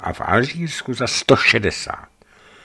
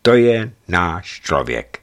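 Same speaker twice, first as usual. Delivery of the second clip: delighted, drawn out slow; slow, delighted praise of the driver; enthusiastic; 3 semitones higher, 3 dB louder, slower than usual. Acted. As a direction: savour the words with glee. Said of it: "řekla pak nadšeně".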